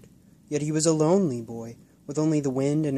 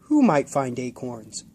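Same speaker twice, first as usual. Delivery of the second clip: slow, lightly voiced kind old man; 5 dB louder than usual. Old blind man asking the boy, kindly. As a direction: ask gently like a grandfather. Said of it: "answered a kind, wrinkled man".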